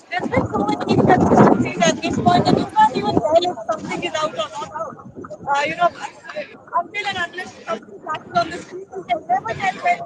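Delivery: loud, distorted, cutting-out line; bad connection, audio clipping; radio breaking up. Real, not acted. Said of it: "nothing is audible".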